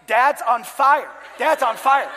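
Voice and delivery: high, loud mock alarm; drawn-out yell imitating panicked children; imitated screaming kids. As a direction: holler it like a kid raising the alarm. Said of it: "They're screaming and they're yelling".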